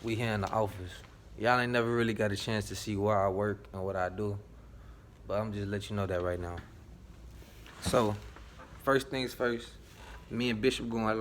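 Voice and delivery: muffled behind a mask; talking through a cloth mask; through a face mask. Real, not acted. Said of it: "Excuse the mask".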